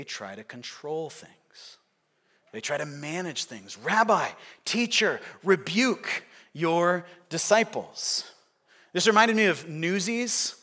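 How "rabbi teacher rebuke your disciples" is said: a mildly insistent rebuke, word by word; measured demand. Acted. Pharisees telling Jesus to manage his followers, mildly insistent. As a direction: press the demand slowly at the end.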